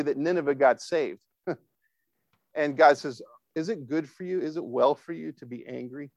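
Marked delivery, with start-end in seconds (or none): 3.5-6.1 soft, probing question; quiet, caring challenge; gentle God. Retold or imitated. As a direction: ask softly, as God to an angry person. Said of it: "hear God's voice say this to you".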